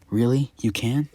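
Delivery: put-on a kid thrilled at the offer; excited. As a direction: Deku thrilled that Venom can give him powers. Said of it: "Deku would say".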